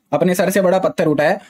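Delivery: ordinary delivery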